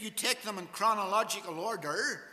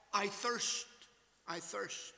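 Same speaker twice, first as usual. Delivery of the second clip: fading to a hush; 6 dB quieter than usual. Acted. Preacher quoting Christ on the cross.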